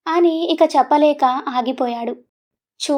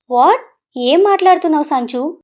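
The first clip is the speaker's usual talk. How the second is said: shocked shout. Acted. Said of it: "గట్టిగా అరిచాడు సీరియస్గా".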